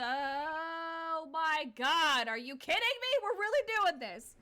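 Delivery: loud, high, drawn-out disbelief; genuinely worked-up, high and loud outburst; real excitement. Real, not acted. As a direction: burst out thrilled and incredulous. Player thrilled by the game's turn.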